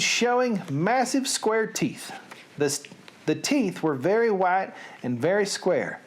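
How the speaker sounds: expressive storybook read; story narration. A narrator's reading. Storyteller describing the giant's grin, expressive narration. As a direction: paint the picture for listeners.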